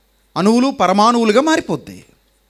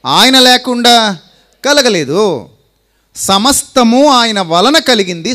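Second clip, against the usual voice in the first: preaching climax; 4 semitones higher, 5 dB louder than usual. Acted.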